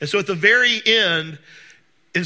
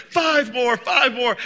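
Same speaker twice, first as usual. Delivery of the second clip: higher, louder hammed-up count of reps; mock yelling spotter; 6 semitones higher, 4 dB louder, slower than usual. Spotter yelling at a lifter at the end of a set: hammed-up, louder, higher count. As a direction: egg the lifter on with a mock shout. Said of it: "he's yelling at you".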